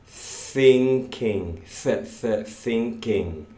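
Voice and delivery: "thinking" with a clear th, tongue between teeth; model th sound. Shown as a demonstration. Teacher modelling the th in "thinking". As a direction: stretch the th in "thinking" for the class. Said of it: "What are you thinking about?".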